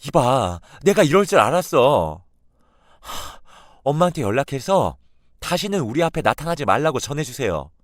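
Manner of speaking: very loud, high, near-shouting outburst; furious granddaughter. Retold or imitated. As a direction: lay down the law to her grandmother. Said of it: "외할머니에게 크게 화를 내고". (할머니에게 퍼붓는 분노의 고함)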